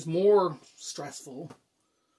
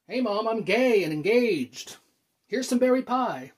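higher, cheery mock announcement; 5 semitones higher, 4 dB louder than usual. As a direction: blurt it out as an absurdly casual announcement. Rehearses absurd announcement to mother.

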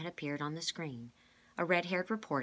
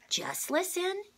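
urgent hush; 5 dB louder, slower than usual. A narrator's reading. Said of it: "said number two".

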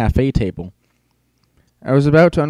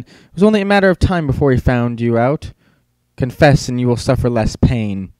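loom over him with the charge; menacing accusation. Acted. Monster teacher demands confession.

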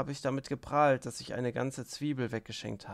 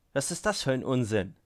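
louder, flung-out disbelief; astonished shout; 5 dB louder than usual. Acted. Rakitin cries out, stunned by the money. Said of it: "rief Rakitin verblüfft".

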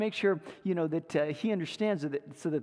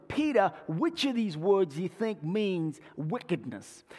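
put-on a light Cockney accent, asking a friend; a hint of Cockney on the phone. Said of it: "his fellow Cockney friend".

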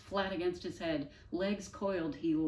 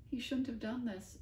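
choked; 7 semitones higher than usual. Acted. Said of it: "Avril choked".

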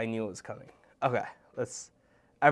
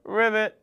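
frog croak; 5 semitones higher, 6 dB louder than usual. Pretend. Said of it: "No, I'm kidding".

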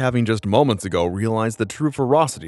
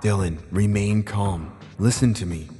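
kind voice. Acted. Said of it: "a kinder, warmer, unfamiliar voice".

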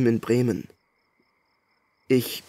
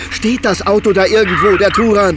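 higher and louder, desperate; clutching at hope, yelling; panicked shout about the sister's car; frantic shout; 8 semitones higher, 7 dB louder than usual. Acted.

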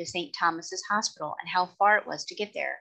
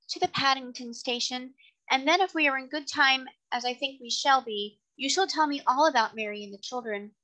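gracious lady passenger; 5 semitones higher than usual. Acted. Voices the lady.

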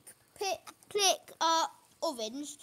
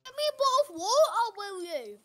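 put-on higher, swooping British accent; playful British reply in a lifted pitch; mock British; 4 semitones higher, slower than usual. Player answering a friend's water request, mock British. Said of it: "you better speak British".

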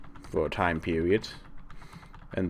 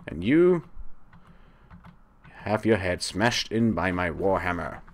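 gleeful taunt; 4 dB louder than usual. Acted. Taunting dying monsters.

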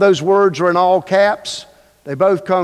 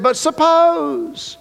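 Moses worried. Acted. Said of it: "Moses answered God and he said".

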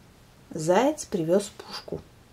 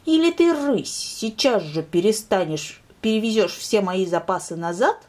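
said loudly. Acted. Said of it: "сказал он громко".

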